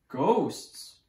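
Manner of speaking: a jolt of startled disbelief; startled echo. A narrator's reading. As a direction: blurt it out in alarm. Startled guests echo the word.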